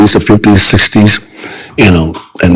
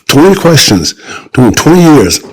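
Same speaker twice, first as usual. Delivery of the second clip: excited pitch; 4 semitones higher than usual. Real, not acted. Excited pitch of his idea.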